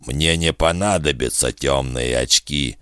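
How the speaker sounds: low, gurgling monster threat. Acted. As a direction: gurgle it like a creature under water. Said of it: "ответил булькающий голос".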